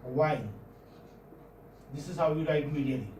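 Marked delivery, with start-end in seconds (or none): 0.0-0.4 "A while" with weak A and stressed "while"; stress on second syllable. Shown as a demonstration. Teacher shows the accent on next syllable, stress on "while". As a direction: lean on "while" in "A while", falling and low. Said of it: "the accent on the next syllable".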